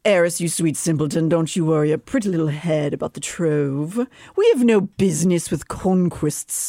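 lightly voiced courtier; a hint of patronizing courtier; courtier's voice. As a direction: condescend mildly, as if imitating a noble. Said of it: "crushing it with his Rhys impression".

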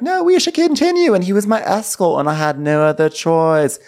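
high, loud mock insistence; retold protest. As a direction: act out a breathless high-pitched excuse. Retold excited excuse, acting out.

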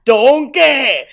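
Donkey! in a loud, Shrek-style Scottish accent; a hammed-up Scottish accent on request. Shown as a demonstration. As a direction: shout donkey like a cartoon Scot. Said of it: "Say donkey for me".

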